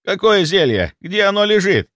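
high, loud anxious questioning; panicked butler asking; frantic question. A narrator's reading. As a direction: ask urgently, frightened.

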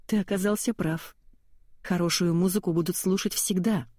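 ordinary delivery

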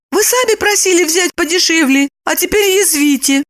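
high, anxious woman; mildly hurt, high; lightly worried high voice; worried reproach. A narrator's reading. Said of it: "встревожилась Липочка".

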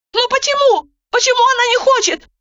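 high, fast despairing cry; desperate cry. A narrator's reading. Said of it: "с отчаянием закричала Роза".

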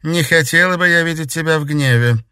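a chilly sarcastic aside; cold remark. A narrator's reading. Countess to Alexander, cold sarcasm. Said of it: "холодно произнесла графиня".

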